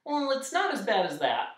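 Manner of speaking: high, consoling character voice; sympathetic. A narrator's reading. Dodecahedron comforting the humbug, sympathetic. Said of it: "from his most sympathetic face".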